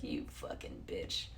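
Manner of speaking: slow, affronted scolding in someone else's voice; offended European. Acted. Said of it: "they're probably like".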